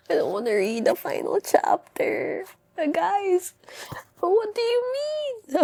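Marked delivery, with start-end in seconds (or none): 2.8-5.6 stunned disbelief. Real, not acted. Stunned by the book's ending.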